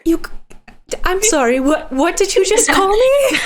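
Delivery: mother laughing at being called by name; laughing disbelief. Acted. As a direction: break into laughter mid-question. Mother hears daughter use her first name.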